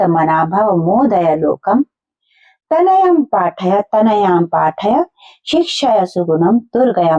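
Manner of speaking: slow, measured recitation with drawn-out syllables; unhurried teacher's verse reading; Sanskrit verse recitation. Shown as a demonstration. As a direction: recite the verse slowly for pupils to follow. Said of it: "पहले हम एक बार पढ़ लेते हैं".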